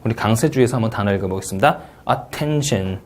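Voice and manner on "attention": "Attention" with the stress on "TEN", falling; second syllable stress. Shown as a demonstration. Teacher showing second-syllable stress. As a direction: put the weight on "ten" in "Attention". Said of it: "이 음절 강세가 되겠고요".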